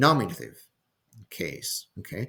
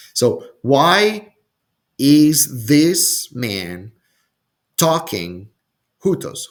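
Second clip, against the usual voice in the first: louder, slow, indignant why; emphatic loud question; 4 semitones higher, 7 dB louder, much slower than usual. Acted. Scribes question the man forgiving sins, loud and slow. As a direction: demand it like an outraged scribe.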